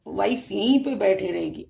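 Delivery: lightly acted arrogant husband, emphatic; a touch of mock arrogance. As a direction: lay down the law like a self-important husband, mildly mocking. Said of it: "आपके अंदर ये arrogancy था".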